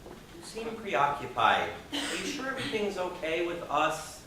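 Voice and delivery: soft, slow, gently worried asking; concerned girlfriend. Retold or imitated. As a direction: ease into it like checking on someone you love. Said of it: "approached him at some point and said".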